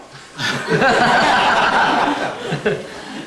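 loud hearty laugh; big loud laugh; burst of laughter. Real, not acted. Laughs at the truquito joke.

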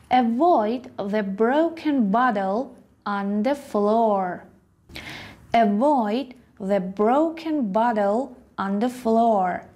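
slow clear reading for learners; slow model sentence. Shown as a demonstration. Teacher reading an example sentence slowly. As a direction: read it out slowly, word by word. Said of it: "model sentence read slowly".

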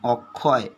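"অক্ষয়" said as ok-khoy, with a doubled kh sound; teacher's careful model of "অক্ষয়", ok-khoy; pronunciation demo. Shown as a demonstration. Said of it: "তোমরা উচ্চারণটা করছো এইভাবে".

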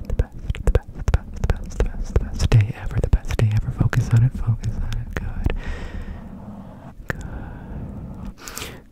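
whispered guided imagery; guided relaxation. Acted.

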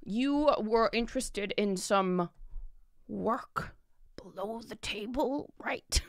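dropping to a soft secretive whisper; conspiratorial hush. Acted. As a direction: lean in and hint at shady work. Merchant hints at shady work.

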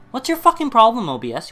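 yelling his frustration at the software; real exasperated shout, then dropping off; fed-up yell; angry outburst. Real, not acted. Ranting at the recording software.

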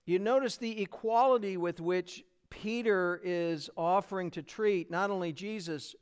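ordinary talk, nothing marked

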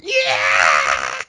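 imitated yell. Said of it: "then I hear yours going".

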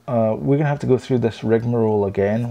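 muffled behind a hand; hand over mouth. Real, not acted. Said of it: "I put my hand over my mouth there".

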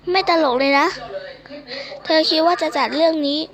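lightly acted scolding teacher, pitch lifting in places; exasperated scolding. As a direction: mildly tell off a student in character.

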